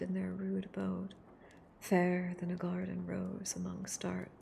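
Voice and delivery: hushed, close reading of a novel. Acted. Streamer reading Frankenstein aloud to ASMR viewers, hushed and close.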